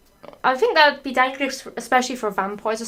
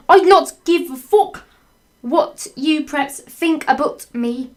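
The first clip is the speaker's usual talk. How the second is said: angry rant; 5 semitones higher, 4 dB louder than usual. Acted. Angry author's note.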